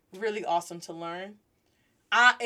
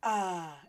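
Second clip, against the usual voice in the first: refreshed sigh; 3 semitones lower than usual. Shown as a demonstration. Sighs after a drink of water.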